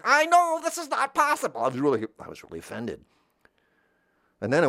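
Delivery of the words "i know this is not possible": squeaky high disbelieving inner voice. Retold or imitated. Teen watching Disney movie, squeaky high disbelief. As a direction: think it in a tiny high squeak. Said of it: "I'm thinking".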